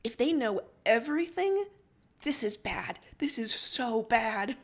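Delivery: loud start sinking to a tense hush; rising panic. Acted. Captain realizes the breach, panics then whispers.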